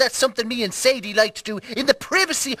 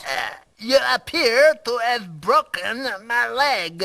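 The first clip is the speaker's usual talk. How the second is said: French accent. Shown as a demonstration. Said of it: "You're saying it in a French accent".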